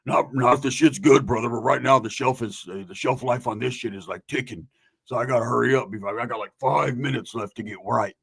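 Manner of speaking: lightly voiced low drone; low, groggy explaining; Roach's groggy voice. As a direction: reason it out like a sleepy man. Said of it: "Roach would lose his groggy voice".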